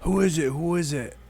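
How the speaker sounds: high mock yell, held back in volume; imitated yelling. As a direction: imitate a heckler calling out, without real volume. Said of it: "I hear him starts yelling".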